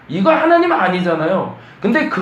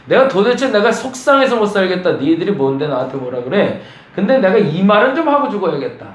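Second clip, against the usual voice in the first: Job complaining; 3 semitones higher than usual. Acted. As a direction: let out the grievance at last. Voicing Job's complaint.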